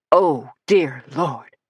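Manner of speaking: slow, stunned disbelief; deeply stunned. Acted. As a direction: breathe it out in shock. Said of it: "sounding deeply stunned".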